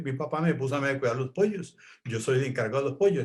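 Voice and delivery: lightly voiced little boy, quick and eager; the boy's voice. Retelling how the boy spoke, lightly voiced child. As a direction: rattle it off like the proud boy in charge of the chickens. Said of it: "cómo hablaba el niño".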